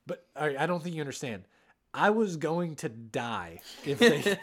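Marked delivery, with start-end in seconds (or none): 1.9-4.4 laughing. Real, not acted. Joking he'd die over a bet.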